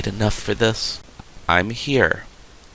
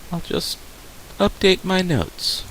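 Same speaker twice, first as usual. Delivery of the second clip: whispered, higher aside; 7 semitones higher than usual. Acted. Counselor muttering while writing notes, whispered. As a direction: say it half to yourself.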